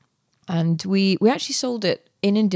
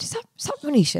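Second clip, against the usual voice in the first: sweet voice; 10 semitones higher, faster than usual. Retold or imitated. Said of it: "this very sweet voice".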